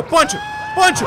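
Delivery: second take squeaky and high; excited urging. Real, not acted. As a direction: egg the attack on, voice cracking up. Urging attack, pitch leaps.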